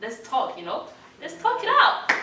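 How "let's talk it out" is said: excited. Real, not acted. Emphatic invite.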